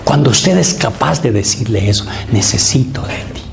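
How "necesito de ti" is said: whispered prayer. Shown as a demonstration. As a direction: whisper "Necesito de ti" without voice.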